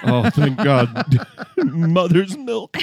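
slow, savoring mock relief; hammed-up relief with a laugh; relieved drinker. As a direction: sigh gratefully over the drink, amused. Acting man offered bourbon.

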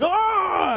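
very high squeaky yelp of discomfort; mock yelp. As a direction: squeal like someone just got poked. Imitating the guy's uncomfortable yelp.

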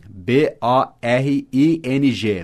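B O R I N G spelled letter by letter, slow; spelled out slowly. Shown as a demonstration. Teacher spelling B O R I N G slowly for the student.

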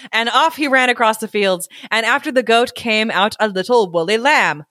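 measured, expressive storyteller; story narration. A narrator's reading. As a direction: read it aloud like a picture book. Reads story aloud.

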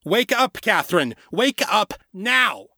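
high, urgent wake-up call; commanding high-pitched cry; loud, insistent. A narrator's reading. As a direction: call out to rouse her, drawing out the last words. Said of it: "the loud voice insisted".

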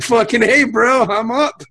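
lightly voiced eager dude, pumped up; a hint of a fired-up buddy; bro voice. Voicing Jordy's excitement.

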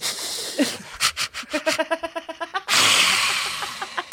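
high-pitched possum impression; possum noise. Shown as a demonstration. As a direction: screech like possums in the roof. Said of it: "do the possum sound".

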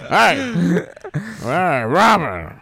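loud, slow macho drawl; Burt Reynolds impression. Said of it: "It's me, Burt Reynolds".

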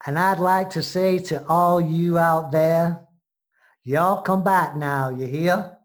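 a playful y'all in a put-on American accent; mock American accent. Limey signing off to listeners in a mock American accent. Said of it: "in an American accent".

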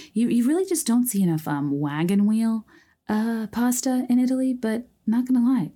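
bright and loud with enthusiasm; excited. Real, not acted. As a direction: gush about it, pitch up high. Gushing about favourite pasta.

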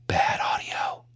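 soft, whispered verdict; hushed whisper. Shown as a demonstration. Podcaster showing listeners poor sound, in a whisper. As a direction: whisper it under your breath. Demonstrating bad mic setting.

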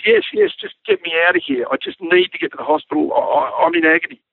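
pleading mock scream, starting high; retold screaming. Injured man begging pilot for hospital, mock screaming. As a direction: imitate an agonised man begging, without real volume. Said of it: "he's screaming and carrying on".

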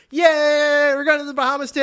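high, loud squealing cheer; excited squeal. Retold or imitated. Friends cheering about a Bahamas trip, high excited squeal. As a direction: squeal it like giddy teens. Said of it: "And they're like".

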